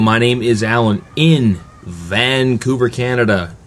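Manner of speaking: booming show-opening voice; booming radio voice. Shown as a demonstration. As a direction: announce it like a radio host. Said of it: "my booming radio voice going".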